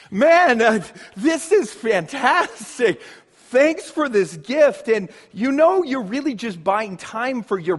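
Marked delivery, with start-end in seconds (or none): 0.1-4.9 a touch of mock enthusiasm over a puzzling gift; faked delight. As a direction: pretend to love a present you don't understand. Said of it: "You fake it".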